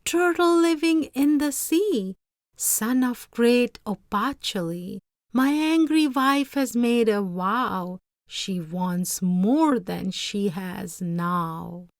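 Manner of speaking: terrified fisherman calling to the turtle over the storm. Acted. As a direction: shout over the roaring hurricane. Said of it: "cried out over the hurricane's roar".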